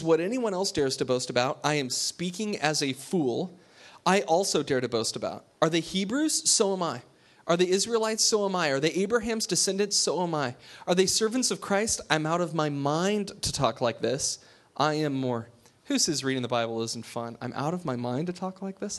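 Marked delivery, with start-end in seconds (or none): 0.0-15.5 scripture reading. Acted. Reads Paul's boasting passage. 17.4-19.0 relishing the line. Acted. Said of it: "Like, that's just great stuff".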